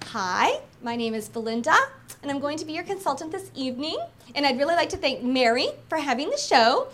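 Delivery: flat, hesitant sales opening; weak, uncommitted opening; winging it. Shown as a demonstration. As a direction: mumble through it unprepared. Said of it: "I call it winging it".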